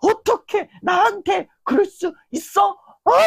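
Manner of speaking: imitating a fuming person who snaps; furious yell. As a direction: hurl it at the one who turned you down. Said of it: "막 씩씩거리는 거야".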